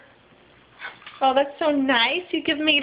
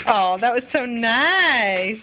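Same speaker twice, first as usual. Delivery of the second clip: tender praise; 4 semitones lower, much slower than usual. Real, not acted. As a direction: melt a little over the kiss. Praising toddler's kiss to toy.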